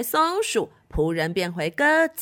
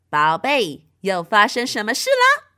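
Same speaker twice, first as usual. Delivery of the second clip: loud motherly witch voice; 6 dB louder than usual. Acted. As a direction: arrive fussing over baby.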